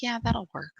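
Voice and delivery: quiet, calm agreement; softly content yes; really calm. Retold or imitated. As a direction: settle into easy acceptance. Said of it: "Like, really calm".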